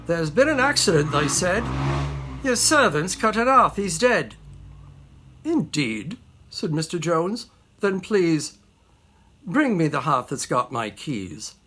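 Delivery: urgent news, then unruffled reply; excited messenger answered coolly; comic poem recital. Acted. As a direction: recite the verse as a little dialogue.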